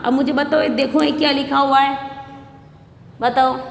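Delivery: usual speaking voice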